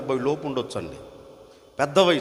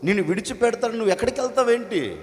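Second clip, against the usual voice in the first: retold scolding, higher and faster; son-like preacher scolding the mother, higher; mock scolding; 4 semitones higher than usual. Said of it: "తిట్టానండి నేను".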